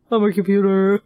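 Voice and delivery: imitating the spooky computer; a hint of robot. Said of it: "this scary robot voice".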